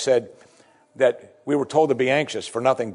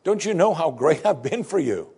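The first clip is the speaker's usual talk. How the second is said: pleading Hezekiah; 8 semitones higher than usual. Acted. King protesting to God that he served well, higher and pleading. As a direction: plead your record with God, voice climbing. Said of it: "He says".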